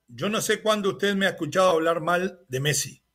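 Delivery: ordinary delivery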